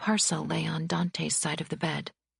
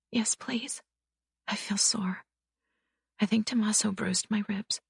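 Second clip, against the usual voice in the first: put-on bruised young wife; 7 semitones higher than usual. A narrator's reading. Bibi voiced, in pain.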